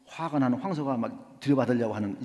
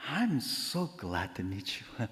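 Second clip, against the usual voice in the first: soft, slow, sweet greeting; smiling; 3 semitones lower, 6 dB quieter, much slower than usual. Retold or imitated. Newcomer smiling more as the neighbor gets angrier, smiling. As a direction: smile through every word, unruffled. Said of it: "웃으면서".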